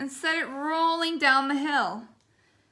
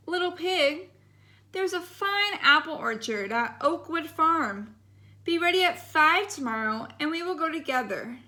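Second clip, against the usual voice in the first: lightly higher sugary wolf voice; sweet little voice; 3 semitones higher than usual. Acted. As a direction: sweeten it to trick the pig. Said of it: "in a sweet little voice".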